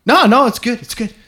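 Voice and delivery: high-pitched quick brush-off; lightly voiced breezy doctor. Doctor brushes off patient's hay fever worry, breezy. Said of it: "He goes".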